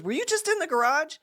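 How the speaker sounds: high-pitched imitation of grandmother; questioning grandmother. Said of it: "She goes".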